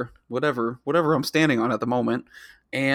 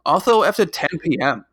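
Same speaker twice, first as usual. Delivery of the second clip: Homestar voice; 4 dB louder than usual. Pretend. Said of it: "in my best Homestar".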